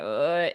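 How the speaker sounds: low, mock half-asleep "uh"; groggy grunt. Athlete woken by mom for a coach's call, groggy grunt. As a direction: imitate being woken from a nap. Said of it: "waking up on the couch".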